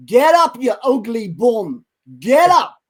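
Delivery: high, loud corner-man roar, slowing on the insult; Mickey's yell. Retold or imitated. Old trainer yelling at his downed boxer to rise, loud high roar. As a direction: bellow it like a trainer ringside. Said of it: "But Mickey yells out".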